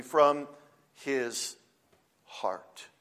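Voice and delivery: word by word. Shown as a demonstration. Preacher stresses each word of verse.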